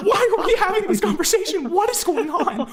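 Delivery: high, laughing, baffled repeats; laughing disbelief. Real, not acted. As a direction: laugh helplessly while asking. Streamer laughing at the absurd exchange.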